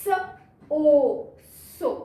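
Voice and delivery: स then ओ, then सो with long O; phonics blending. Shown as a demonstration. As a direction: sound it out and blend. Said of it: "उसके बाद एस ओ".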